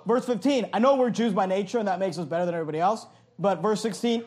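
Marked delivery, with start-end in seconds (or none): 0.7-3.0 quick, mock-superior aside; sarcastic. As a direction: rattle it off as a sarcastic concession. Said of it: "being spoken sarcastically".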